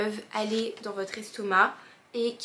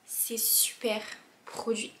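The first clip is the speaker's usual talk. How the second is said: whispering; 5 dB quieter than usual. Real, not acted. Teasing whispered build-up.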